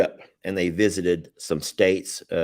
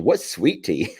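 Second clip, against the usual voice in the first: mock puzzled. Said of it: "hear people saying".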